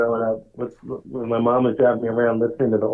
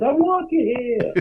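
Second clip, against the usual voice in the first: imitating Dustin Hoffman; 11 semitones higher, slower than usual. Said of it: "hits the car and goes".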